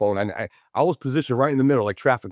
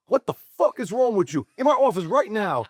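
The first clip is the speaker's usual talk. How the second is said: retold angry boss; 9 semitones higher than usual. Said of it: "He, like, went off on me".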